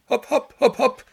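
high, loud coachman's yell; coachman shouting. Acted. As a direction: shout to drive the horses on. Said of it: "Der Kutscher schrie".

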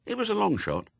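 plain reading voice

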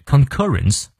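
concurrence with the stress on CUR; con-CUR-rence, demonstrated for learners; stress on second syllable. Shown as a demonstration. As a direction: punch the middle syllable of concurrence. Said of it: "重音也在第二个音节".

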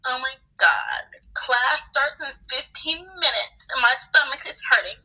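slow, dragged-out imitation of bellyaching; mock pained whine. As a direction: groan it like a friend with a stomachache. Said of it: "'Cause her stomach was hurting".

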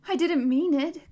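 loud, high, pleading denial; loud high protest. A narrator's reading. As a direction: cry out against it. Connor protests loudly.

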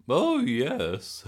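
high, loud, slow granny; innocent Gran voice. A narrator's reading. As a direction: play dumb sweetly.

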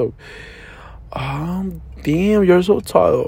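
"Oh" whispered, "damn, you're so tall" drawn out slowly; hushed slow echo. Retold or imitated. Man mockingly echoing the girl's compliment, hushed and slow. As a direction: breathe the "Oh", then stretch the rest.

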